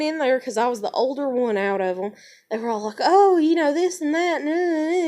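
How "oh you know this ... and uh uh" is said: high, loud teary imitation of the girls; hammed-up near-tears babble; imitating upset girls. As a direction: mimic their upset stammering. Upset girls retold in bathroom.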